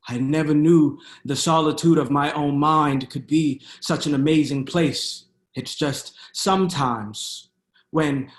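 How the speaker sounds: measured poetry recital with dramatic pauses; spoken-word poem. Acted. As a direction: perform it as spoken-word poetry, leaning into key words.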